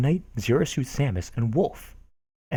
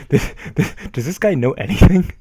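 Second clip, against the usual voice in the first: laughing disbelief; 5 semitones higher, 7 dB louder than usual. Real, not acted.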